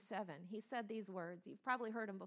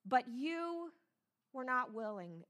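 grieved lament; 4 semitones higher, 7 dB louder, slower than usual. Acted. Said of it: "voice of a mother".

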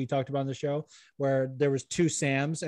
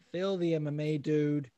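Australian; 3 dB quieter than usual. Pretend. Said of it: "I don't know why I went Australian for that".

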